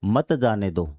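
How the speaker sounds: मत जाने दो as one falling phrase; separate phrase after comma. Shown as a demonstration. Teacher finishing the comma example, मत grouped with जाने दो. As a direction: keep मत joined to जाने दो. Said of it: "आपने कॉमा लगा दिया".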